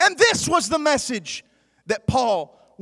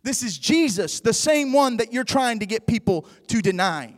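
voice from heaven; 3 semitones lower than usual. Acted. Voice of Jesus answering Paul, low and grave. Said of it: "the voice rang out".

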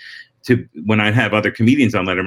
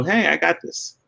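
higher-pitched, unhurried self-assurance; easy confidence; 8 semitones higher, 3 dB quieter than usual. Acted. Comic letting the audience know he's relaxed, mildly cocky. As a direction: let them know it's handled, without pushing. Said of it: "take your time and you kinda let people know".

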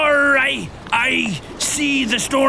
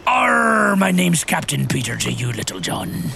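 pirate voice. Acted. Captain Peter scolds Little John in pirate voice. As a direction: threaten the first mate like a hammy pirate. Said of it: "why are you talking like a pirate?".

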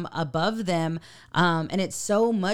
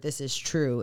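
deep raspy voice; 4 semitones lower than usual. Retold or imitated. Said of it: "in a deep, raspy voice".

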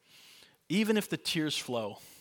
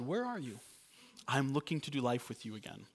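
gentle calling; 7 dB quieter than usual. Acted. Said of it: "God came and found them and said".

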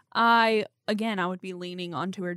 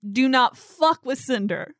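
mild menacing threat; 4 semitones higher, 6 dB louder, slower than usual. Acted. Threatening to protect her monkey.

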